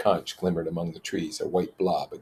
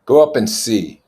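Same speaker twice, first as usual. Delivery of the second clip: contemptuous; 5 semitones higher, 10 dB louder than usual. Acted. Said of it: "said Jack contemptuously".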